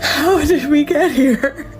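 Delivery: crying. Real, not acted. Repeated, slower crying.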